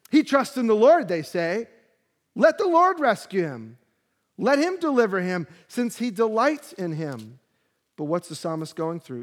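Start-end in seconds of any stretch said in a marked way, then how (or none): 0.1-1.1 higher and louder sneering taunt; mocking jeer. Mockers taunting the psalmist, higher and louder. 2.3-7.4 higher and louder sneering taunt; mocking jeer. Mockers taunting the psalmist, higher and louder.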